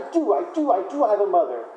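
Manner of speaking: cling to the hope like a tiny chick; insistent baby bird. Retold or imitated. Baby bird insists it has mother.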